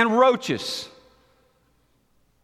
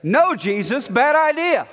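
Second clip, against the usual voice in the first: Peter objecting; 5 semitones higher, 3 dB louder than usual. Retold or imitated. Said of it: "he just keeps saying".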